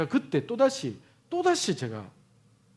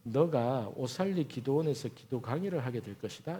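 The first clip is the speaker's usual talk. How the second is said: God's inner voice; 6 semitones lower, 6 dB quieter than usual. Retold or imitated. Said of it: "내 마음에 또다시".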